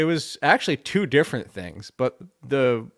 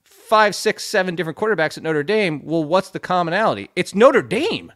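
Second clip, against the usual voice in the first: fired-up rant; 4 semitones higher than usual. Real, not acted. Ranting about Notre Dame quarterbacks.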